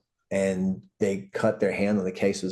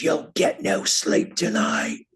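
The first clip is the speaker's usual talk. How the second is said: slow, high, breathy menacing whisper; creepy threat; 13 semitones higher, slower than usual. Retold or imitated. Masked guy leaning out of the van, menacing whisper. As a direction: whisper a threat from behind a mask. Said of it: "he goes".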